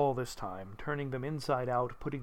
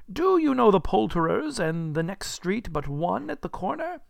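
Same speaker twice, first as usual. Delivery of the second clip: raised, keen questioning; eager inquiry; 6 semitones higher, 4 dB louder than usual. Acted. Scrooge asking boy about the poulterers, eager raised voice. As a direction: ask it brightly from above.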